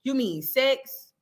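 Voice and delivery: slow, feigned innocent rise; mocking Megan's answer. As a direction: ask it like you have no clue. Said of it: "that's exactly how she sounded".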